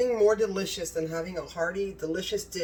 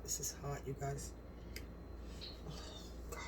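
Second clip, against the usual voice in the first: "This is hot" said far softer, almost under the breath; gasping softly at the heat of the bite; hushed; 4 semitones lower, 16 dB quieter, faster than usual. Real, not acted. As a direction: drop the voice way down on "hot". Tasting hot food, repeats it quietly.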